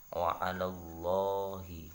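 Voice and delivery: wa 'alallahi with a dark, thick lam in Allah; slow Quran reading, thick Allah; heavy Allah. Shown as a demonstration. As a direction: recite it slowly with tafkhim. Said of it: "bacaan tebalnya".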